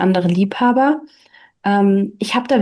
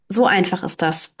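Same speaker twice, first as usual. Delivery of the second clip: softer, lower falling answer, stress on So; smiling confirmation; 3 semitones lower, 4 dB quieter than usual. Acted. Bertha answering Hans, settling it with a soft smiling fall. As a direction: calmly confirm with a smile. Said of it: "bestätigte lächelnd Bertha".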